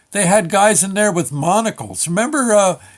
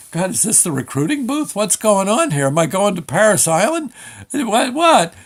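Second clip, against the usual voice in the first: questions climbing to a high pitch; rising comic disbelief, ending high; mock bewilderment; 5 semitones higher than usual. Rattled teenager wonders if this is boot camp, mock bewilderment. Bewildered teen at yelling worker.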